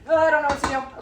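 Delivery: high, loud flustered cry; losing it as the pot bubbles; panicked. Real, not acted. Butter melting too fast, panicking.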